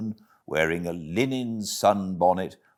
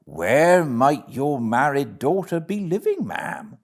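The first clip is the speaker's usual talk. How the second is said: a lightly voiced, hearty barge woman, a touch higher; 8 semitones higher, 4 dB louder than usual. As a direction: hail the passer-by like a friendly bargewoman.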